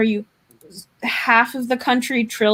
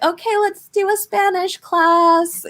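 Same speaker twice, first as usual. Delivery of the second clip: teacher voice; 8 semitones higher than usual. Retold or imitated. Mimicking school teachers.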